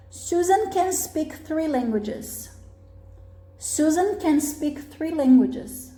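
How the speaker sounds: "can" unstressed, weight on "speak"; slow, careful model sentence leaning on "speak"; affirmative intonation. Shown as a demonstration. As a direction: read it for learners, "speak" as the main verb. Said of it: "você coloca a entonação na parte certa".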